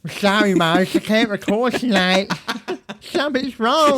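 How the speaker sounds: high, pleading, self-pitying; mock distressed voice. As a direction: whimper like a fragile caller. Mock distressed lisper calling in.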